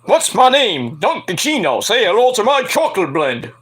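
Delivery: a hint of a Scarface voice; Al Pacino voice. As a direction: parody Tony Montana lightly. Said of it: "Dunkin' Chino".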